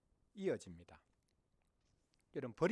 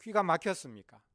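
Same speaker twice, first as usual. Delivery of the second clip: raised, exasperated plea; crying out; 4 semitones higher, 6 dB louder than usual. Acted. Believers in hardship crying to God, exasperated pleading. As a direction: protest louder and higher, begging to be heard. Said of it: "외칠 때가 있지 않습니까".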